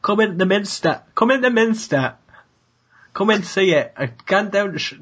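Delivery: mock York accent, lightly put on; hammed-up little York accent impression. Shown as a demonstration. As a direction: try out a York accent on a short phrase. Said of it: "an attraction in York that I could".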